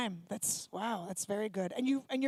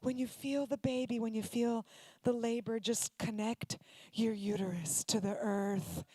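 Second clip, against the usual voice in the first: soothing LA doula; 3 semitones lower, 3 dB quieter than usual. Retold or imitated. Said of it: "they try to talk you out of it".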